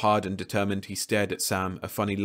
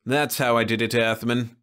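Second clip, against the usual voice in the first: louder, higher triumphant Venusian; triumphant alien; 3 semitones higher, 5 dB louder than usual. Acted. Leffler revealing his trick to the crew, triumphant. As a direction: gloat lightly. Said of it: "Triumph warmed his crystal-thin voice".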